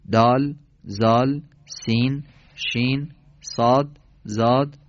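slow, deliberate recital of shared letter names; letter names recited. Shown as a demonstration. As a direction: spell out الف، جیم، دال one by one, slowly. (تلفظ آهسته و شمرده نام حروف)

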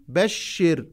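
بشر said short, ending on the r; masculine بشر. Shown as a demonstration. Teacher contrasts بشر with the feminine form. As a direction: clip بشر cleanly, no final vowel. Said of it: "حينما أخاطب الذكر".

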